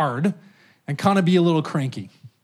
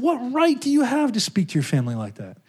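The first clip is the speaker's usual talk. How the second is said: Jesus' voice; 6 semitones higher than usual. Retold or imitated. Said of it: "Jesus said".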